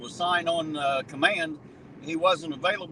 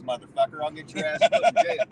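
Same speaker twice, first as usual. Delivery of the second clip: high, mocking voice of a smug mayor; arrogant mayor; 3 dB louder than usual. Mocking the mayor who dodged his DUI, smug and high. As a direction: sneer it like you're above the law.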